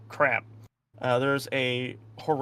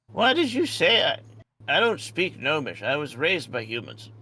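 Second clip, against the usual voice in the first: indignant gnome; 2 semitones higher than usual. Acted. Voices the gnome's indignant reply.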